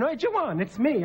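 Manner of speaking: lightly voiced aunt caught out; dignified aunt. Aunt caught picking hedges, lightly voiced startled lady.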